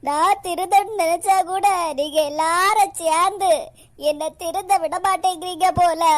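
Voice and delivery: hammed-up weepy grievance; tearful complaint. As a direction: complain through stage tears. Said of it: "எதுக்கு அழுதுட்டு இருக்கீங்க?". (அழுகையோடு குறை சொல்வது)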